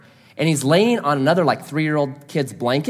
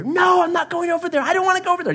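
put-on much higher, whiny stubborn child; toddler tantrum; 14 semitones higher, faster than usual. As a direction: whine it, stamping feet. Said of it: "Just stamping his feet".

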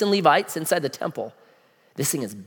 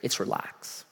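soft whisper; 9 semitones lower, 13 dB quieter, slower than usual. Real, not acted. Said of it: "one thing you need to do".

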